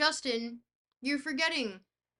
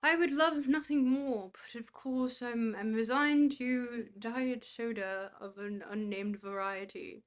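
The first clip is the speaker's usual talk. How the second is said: mock haughty duke; slower than usual. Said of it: "unbecoming of a duke".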